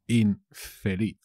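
"infeliz" drawn out with a split after "in"; slow, broken up. Shown as a demonstration. Teacher repeating a word for learners, slow and broken up. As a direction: say "infeliz" slowly, in parts.

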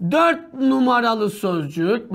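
drawn-out dictating voice; slow dictating the option; slow dictation pace. Shown as a demonstration. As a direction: spell it out slowly while writing. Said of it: "bak yazıyorum".

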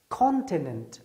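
ordinary talk

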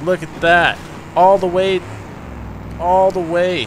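loud, high, triumphant cheers; excited cheering. Real, not acted. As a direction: cheer the car over the top. Cheering car up the slope.

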